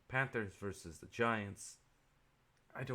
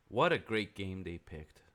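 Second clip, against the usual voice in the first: slow, louder mock praise; sarcastic fake enthusiasm; 6 dB louder than usual. Real, not acted. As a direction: drag it out with heavy sarcasm. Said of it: "That's me being sarcastic".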